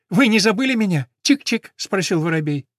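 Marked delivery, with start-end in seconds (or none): 0.1-1.7 high chirpy little sparrow voice. Acted. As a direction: chirp it like a small bird. Sparrow greets Mary.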